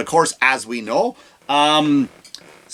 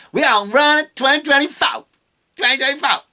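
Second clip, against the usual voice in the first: mock Southern accent; 9 semitones higher than usual. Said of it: "her accent changes".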